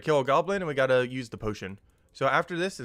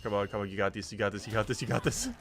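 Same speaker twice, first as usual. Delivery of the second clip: psyching myself up. Real, not acted. Cheering self on in fight.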